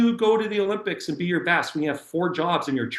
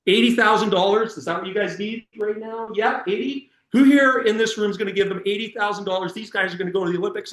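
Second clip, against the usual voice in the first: calling out to a crowd; 6 semitones higher than usual. Retold or imitated. Retold appeal to the crowd.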